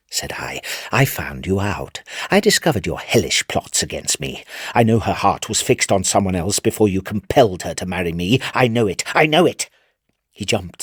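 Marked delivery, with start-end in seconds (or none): 0.1-0.6 breathy whispered aside. A narrator's reading. Narrator whispering his own speech tag. 0.9-9.7 rising accusation. Acted. Madman accuses the brother.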